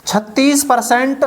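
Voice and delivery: slow, deliberate teacher repeat; slow repeat for emphasis. Shown as a demonstration. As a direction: spell out छत्तीस परसेंट slowly, like a teacher. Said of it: "दोबारा देखो".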